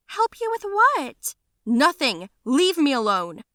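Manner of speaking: high, loud furious outburst; angry shouting. Acted. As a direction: yell at mother and friend. Escalating family quarrel, shouting.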